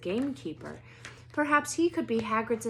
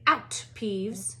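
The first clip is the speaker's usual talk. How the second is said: sharp stern command; stern teacher barking out a ghost; barked order; 5 dB louder than usual. Acted. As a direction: bark it at the poltergeist. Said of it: "she barked".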